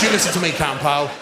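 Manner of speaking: fast, kindly stern teacher voice; fond teacherly reassurance. Retold or imitated. Drama teacher comforting his favourite pupil, warm and firm. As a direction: reassure her firmly but kindly. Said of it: "I said".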